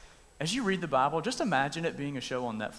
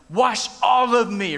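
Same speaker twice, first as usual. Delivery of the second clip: overeager plea; 5 semitones higher, 9 dB louder, slower than usual. Retold or imitated. Peter overeager in retold story.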